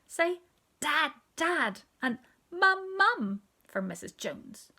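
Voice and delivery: put-on high, loud coaxing of a baby; coaxing neighbour lady. A narrator's reading. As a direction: draw the words out slowly for a baby to copy. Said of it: "she said".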